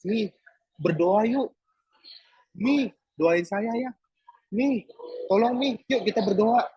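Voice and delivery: lightly voiced clingy request to pray; imitating pleading. Pastor imitating himself asking Mami to pray, mildly coaxing. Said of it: "kedengarannya rohani".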